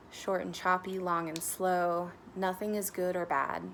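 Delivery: measured guidance with long pauses; guided meditation. Real, not acted. Meditation guide leading listeners to notice their breath, calm guidance. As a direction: guide them gently into noticing the breath, unhurried.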